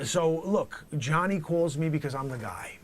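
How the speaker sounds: comic dealer introducing himself; loud character voice. Acted. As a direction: brag it like a proud dealer. Dealer boasting.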